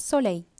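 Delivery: French "soleil", so-lay, final l unsounded; French pronunciation. Shown as a demonstration. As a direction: end "soleil" on a y sound. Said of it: "ஒய் போல தான்".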